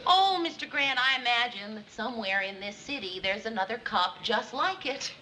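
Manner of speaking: weak, clumsy irony; sarcastic. Acted. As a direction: try sarcasm and fail a bit. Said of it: "you're being sarcastic, Mary".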